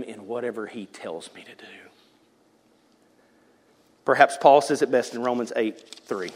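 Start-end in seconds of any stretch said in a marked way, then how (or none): 0.0-1.7 soft devoted whisper. Acted. The second kind of person pledging worship, a whispered vow. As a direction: vow it under your breath.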